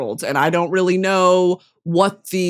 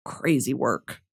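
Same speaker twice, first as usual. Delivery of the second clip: ordinary talk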